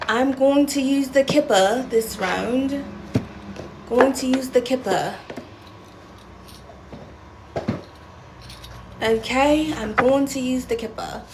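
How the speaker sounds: a hint of a playful British accent; mock British accent. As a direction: lightly put on a British accent. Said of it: "why I'm still talking like that".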